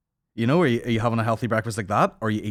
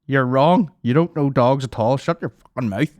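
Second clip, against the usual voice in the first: "You're wrong"; 4 semitones higher, 5 dB louder than usual. Retold or imitated. Continues imitating angry commenters.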